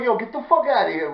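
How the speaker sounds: loud mock indignation; mock ordering out. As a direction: imitate someone throwing you out. Repeats the order out.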